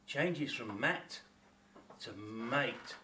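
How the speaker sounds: slow contrast. Shown as a demonstration. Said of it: "can you hear the difference".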